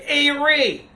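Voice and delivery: loud, high Italian-American voicemail with drawn-out words; caricatured Italian mobster-style phone message; over-the-top Italian. Retold or imitated. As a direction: ham up an Italian family friend leaving a message. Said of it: "so over the top Italian".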